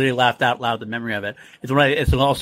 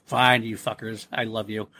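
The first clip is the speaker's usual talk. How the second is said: lovely gruff fondness; 4 semitones lower, 4 dB quieter, slower than usual. Retold or imitated. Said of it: "Aragorn's kinda got this lovely".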